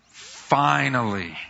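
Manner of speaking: finally stretched long and falling; drawn-out finally. Shown as a demonstration. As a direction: linger on finally. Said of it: "finally I will get to see God".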